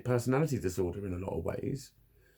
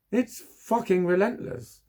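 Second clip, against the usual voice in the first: slow and higher, stress on "fucking"; exasperated; 9 semitones higher, slower than usual. Real, not acted. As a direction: drag it out in exasperation. Repeating in exasperation.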